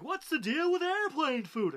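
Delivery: high, loud, slow sing-song Seinfeld bit; terrible Jerry Seinfeld impression. Comedian mocking Seinfeld's airplane food bit, high and loud. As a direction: ham up a nasal-free stand-up whine, stretched out. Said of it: "that's a terrible Jerry Seinfeld impression".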